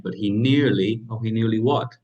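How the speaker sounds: curious listener hanging on nearly; playful what at the end; mock suspense. Shown as a demonstration. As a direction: act the listener left waiting. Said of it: "That's building you up to it".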